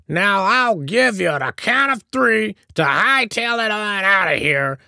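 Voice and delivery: very high, loud cranky tirade; snapping threat. A narrator's reading. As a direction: threaten to blast them off the property. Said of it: "snapped and went on".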